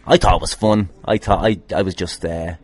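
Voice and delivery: ordinary talk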